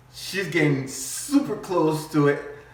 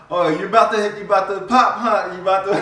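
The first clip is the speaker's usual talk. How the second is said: high, loud mock excitement; imitating onlookers, pitched up and loud; excited onlooker; 7 semitones higher, 9 dB louder than usual. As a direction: blurt it out like a busybody bystander. Acted bystanders in Walmart.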